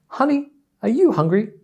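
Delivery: high, mock-casual wife asking; wife's question. Wife asks husband on drive.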